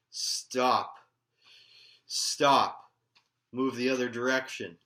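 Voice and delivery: commanding halt. Retold or imitated. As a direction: call it out forcefully to ward them off. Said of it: "having to halt these shadow figures and go".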